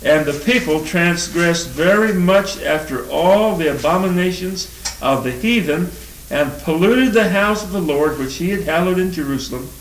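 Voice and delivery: measured, solemn Bible reading; scripture reading. Acted. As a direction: read the verses out to the congregation. Reads scripture aloud.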